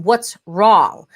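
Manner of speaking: weighted, falling question; judging energy. Shown as a demonstration. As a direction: ask as if something is wrong with them. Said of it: "difference in the energy rather than".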